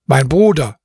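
steady resolve, no pleading; firm tone. Acted. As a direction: address him firmly, brother to brother. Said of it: "sagte ich in festem Tone".

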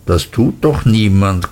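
usual speaking voice

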